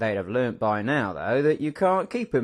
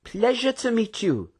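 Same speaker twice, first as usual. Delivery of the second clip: cheery greeting; 10 semitones higher than usual. A narrator's reading. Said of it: "with a cheery smile".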